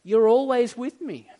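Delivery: lightly acted fatherly tenderness; earnest, gentle reassurance that settles at the end; tender father. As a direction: reassure a wounded son, lovingly. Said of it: "Do you hear the tenderness?".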